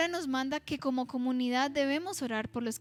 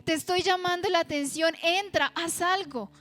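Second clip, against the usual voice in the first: reproaching God; 2 semitones higher than usual. Retold or imitated. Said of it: "reprocharle a Dios".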